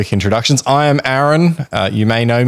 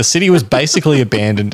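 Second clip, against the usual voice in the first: reading, then cracking up before the last word; breaking into laughter; 3 semitones higher than usual. Real, not acted. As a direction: lose it mid-sentence. Cracks up at own script.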